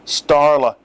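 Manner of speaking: loud pointed correction of her name; correcting. A narrator's reading. Starla correcting her misnamed name, pointed. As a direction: set him straight on the name. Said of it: "she corrected".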